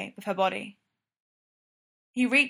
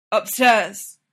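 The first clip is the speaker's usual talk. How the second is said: hoarse, louder, wild; 7 dB louder than usual. A narrator's reading. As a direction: rasp it out, barely in control. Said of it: "his voice sounding hoarse and wild".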